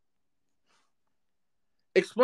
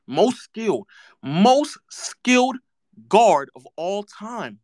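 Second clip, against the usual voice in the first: sarcastic drawl; slower than usual. Acted. Mocking the duo title.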